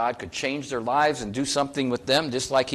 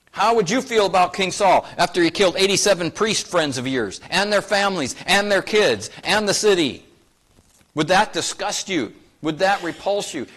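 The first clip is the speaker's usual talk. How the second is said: louder and higher, rising indignation; fiery preaching; 5 semitones higher, 5 dB louder than usual. Acted. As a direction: preach it hard, push the outrage at the congregation. Preaching on King Saul's cruelty.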